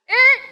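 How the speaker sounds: imitated buzzer "er"; wrong-answer buzzer. Shown as a demonstration. Teacher rejects the mistake, mimicking a buzzer. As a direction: buzz it like a game-show wrong answer. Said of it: "that's wrong".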